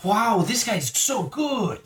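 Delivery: slow, high put-on German accent. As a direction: drag it out in a bad German accent. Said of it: "cut out all attempts at accents".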